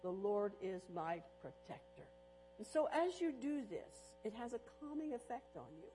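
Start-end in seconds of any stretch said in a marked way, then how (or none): 0.0-2.1 PROTECTOR set apart at the end; steady and low, land on "protector"; stress on PROTECTOR. Shown as a demonstration. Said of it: "each time emphasizing a different".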